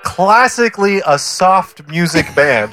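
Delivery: laughing through the words; can't stop laughing. Real, not acted. Mock defending a band.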